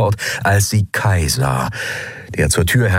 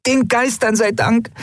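much higher, excited voice; relieved young woman. Acted. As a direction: blurt it out in relief. Nelen relieved at Endriel waking. (Nelen erleichtert zu Endriel, viel höher und aufgeregt)

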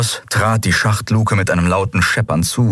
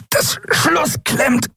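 high, slow pressed reptile voice; strangled voice; much slower than usual. Acted. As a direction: squeeze the words out, straining. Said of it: "mit gepresster Stimme".

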